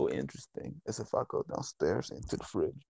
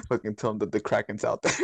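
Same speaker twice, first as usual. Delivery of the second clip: laughing. Real, not acted. Laughing while suggesting.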